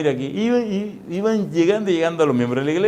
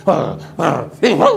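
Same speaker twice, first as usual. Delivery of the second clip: repeated mock startled cries; imitated frightened gasps; 3 dB louder than usual. Preacher imitating the possessed man taking fright, mock gasps. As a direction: act out someone recoiling in fright. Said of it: "hizo así".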